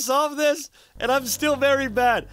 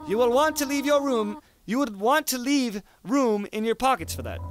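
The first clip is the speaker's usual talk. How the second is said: a lightly raised, kindly goat mom; gentle motherly voice; 3 semitones higher than usual. Acted. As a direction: read it as a caring mother calling. Voicing Toriel on the phone.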